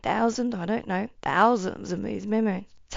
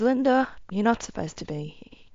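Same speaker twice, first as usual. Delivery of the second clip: level, settled, gentle voice; great-grandmother, now calm, gently telling Linda she shouldn't be here. Retold or imitated. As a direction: say it once she's composed herself. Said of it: "As she calms down".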